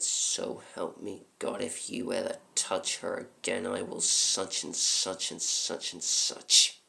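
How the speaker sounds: measured, menacing vow; grave warning. Acted. Cop warning a wife-beater at gunpoint, grave threat. Final warning to abuser, retold.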